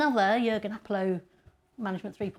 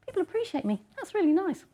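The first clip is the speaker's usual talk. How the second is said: touched, appreciated; 9 semitones higher than usual. Acted. Voices people reading their thanks.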